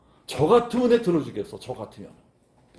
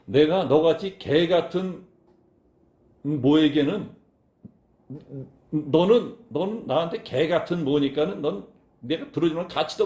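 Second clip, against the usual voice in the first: crude dismissive. Retold or imitated. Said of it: "속된 말로 하자면".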